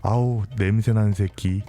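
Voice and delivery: understated, drawn-out disgust; contemptuous. Acted. Abuser complaining about the smell, slow understated scorn. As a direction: grumble slow, mild contempt at someone. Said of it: "멸시하는 듯한 그런 말투를".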